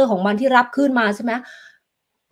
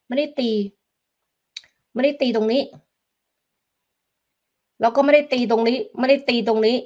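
"ไม่ได้ตี" stressed on ไม่, a bit higher; emphatic not; 3 semitones higher than usual. Shown as a demonstration. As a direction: repeat "ไม่ได้ตีตรงนี้" firmly, leaning on ไม่. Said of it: "แต่ตีตรงมุมเหลี่ยม".

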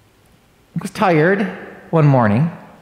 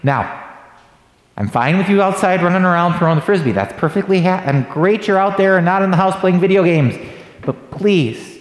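a touch of a stern dad laying down the rule; firm fatherly warning, lightly voiced; sternly. Dad warning his son about the roof, mildly stern. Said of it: "says sternly".

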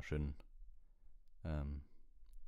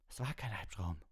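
put-on higher boyish voice; called-out protest; 4 semitones higher than usual. A narrator's reading. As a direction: cry out in protest, pitched up. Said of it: "rief Ron".

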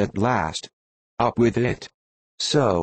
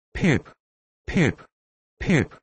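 higher calls, each swooping down; crier's call; 4 semitones higher than usual. A narrator's reading. Mad boy playing ship's crier for his lost self, high falling call. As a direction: call the name out like a town crier, pitched up.

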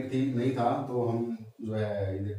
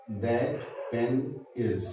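slow mnemonic words; much slower than usual. Shown as a demonstration. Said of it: "ये sentence याद किए थे".

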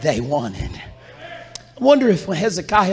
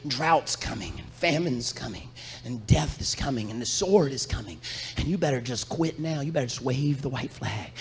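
taunting enemy messenger; 7 dB quieter, faster than usual. Retold or imitated. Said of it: "They say".

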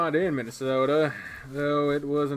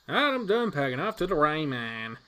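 lively, slightly raised protagonist voice; eager hero heading out; upbeat young hero; 4 semitones higher than usual. Acted. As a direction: call out a cheerful goodbye. Game hero's lines acted.

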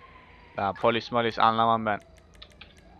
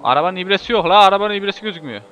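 exasperated yelling; 5 semitones higher, 6 dB louder, faster than usual. Real, not acted. Speedometer missing while racing.

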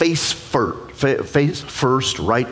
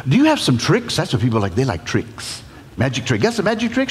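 lightly voiced eager Moses. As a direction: coax the bush for tricks. Moses asking for tricks.

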